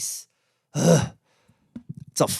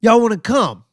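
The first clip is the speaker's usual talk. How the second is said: eager invite; 7 semitones higher than usual. Retold or imitated. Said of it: "And they were like".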